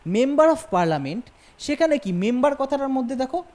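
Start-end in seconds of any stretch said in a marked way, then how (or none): 0.1-1.3 very slow "member of parliament", each word laid out; teacher slowing down to show the sound; slow spelled-out demo. Shown as a demonstration. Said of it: "full form বের করলাম".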